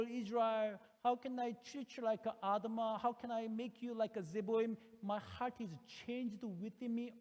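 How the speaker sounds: God's anguished cry. Retold or imitated. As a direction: plead like a heartbroken parent. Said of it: "the cry".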